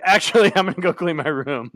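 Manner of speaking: laughing while quoting his younger self; laughing through it. Retold or imitated. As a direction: let the laugh spill into the quote. Retold backing down, laughing.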